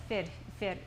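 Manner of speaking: FIT with a drawn-out ee sound; long vowel. Shown as a demonstration. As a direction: hold the vowel in FIT longer, like E. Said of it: "so it's longer sound".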